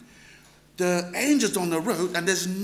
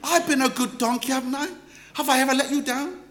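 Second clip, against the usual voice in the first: donkey pleading; 5 semitones higher, faster than usual. Retold or imitated. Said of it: "donkey talks to him and said".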